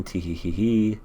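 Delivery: put-on spelt-out girlish tee-hee; mock giggle. Girl brushes off her happy tears, mock giggle. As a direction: imitate a giggle, lightly put on. Voices girl's giggle in recap.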